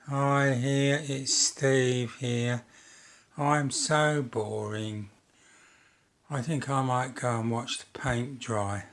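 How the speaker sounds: slow, dreary droning self-parody; dowdy boring bloke. Retold or imitated. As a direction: drone it out like the dullest man alive. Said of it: "I don't want to be too dowdy".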